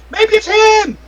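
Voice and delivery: high, loud panicked guess; panicked doorman. Acted. Doorman panicking in the crowd as everyone starts screaming. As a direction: point the finger in a panic. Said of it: "He's like".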